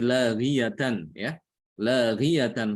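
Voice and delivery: laghiyatan said slowly, ending in tan; slow, careful laghiyatan; example word. Shown as a demonstration. Teacher reads out the example word.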